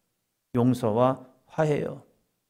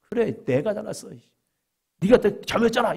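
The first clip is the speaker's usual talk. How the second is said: much higher, mocking snippy comeback; sarcastic retort; 8 semitones higher than usual. An offended neighbor sneering back at an apology, sarcastic. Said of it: "이렇게 나올 수 있어요".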